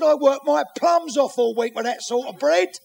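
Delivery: high, slowed-down mock outrage; indignant protest. Husband complaining about wasted wages, indignant.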